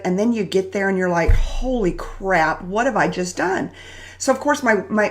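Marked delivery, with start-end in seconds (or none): 1.3-3.7 slow, drawn-out mock horror; slow dismay. Telling viewers how regret hits, in slow mock horror. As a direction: stretch out the dismay. Regret after agreeing to something.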